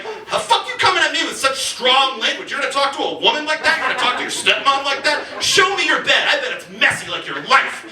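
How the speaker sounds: lightly acted outraged mom; mock stepmom scolding. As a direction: scold them like a naughty stepson. Stepmom persona scolds a caller.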